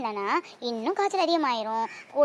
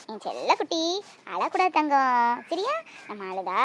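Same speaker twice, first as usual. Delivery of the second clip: soothing; slower than usual. Acted. Mother soothing crying child.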